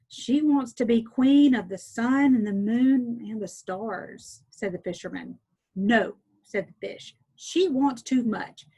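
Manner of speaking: clear, steady read-aloud storyteller voice; story narration. A narrator's reading. Teacher reading a folk tale to listeners, gentle storytelling. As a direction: read it like a bedtime tale for children.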